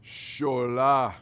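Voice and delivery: imitating his African father calling his name, loud; dad's voice. Father calling his son from the next room, commanding. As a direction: call the son's name with a father's weight. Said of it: "That's how my dad talks".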